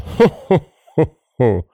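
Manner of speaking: high, hooting ho-ho cackle; acted shrill laughter; goblin laugh. A narrator's reading. Goblin laughs before seizing sexton, high hooting laugh. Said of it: "As the goblin laughed".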